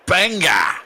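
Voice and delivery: high, punchy shout of the name; shouted callout. Shown as a demonstration. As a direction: bark the name out like a catchphrase. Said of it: "Did I do that right?".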